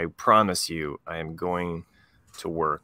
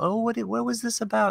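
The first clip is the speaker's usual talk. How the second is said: curious visitor; 13 semitones higher than usual. Retold or imitated. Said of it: "art show visitor voiced".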